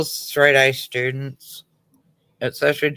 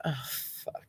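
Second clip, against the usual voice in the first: breathy under-the-breath curse, almost no voice; muttered aside; 15 dB quieter than usual. Retold or imitated. Mother dreading the teacher's arrival, a soft muttered curse. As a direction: mouth it to yourself as the teacher is called. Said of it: "And I'm like".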